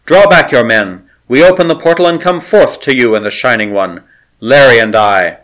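loud command carried out of a window; calling out loud. Acted. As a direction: proclaim it loudly to the men below.

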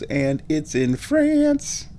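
France with a French accent. Shown as a demonstration. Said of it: "pretty good French accent you have there".

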